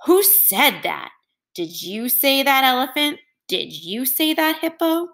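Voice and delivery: rounding on his friends in a rage; angry. Acted. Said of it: "Warthog got so angry he shook all over".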